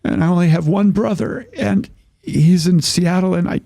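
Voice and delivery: high, halting tearful voice; tearful high-pitched account; imitated crying. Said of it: "she's crying".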